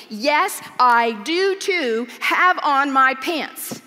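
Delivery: slow, loud insistent protest. Retold or imitated. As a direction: keep pushing back harder. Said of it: "getting louder and louder, insisting".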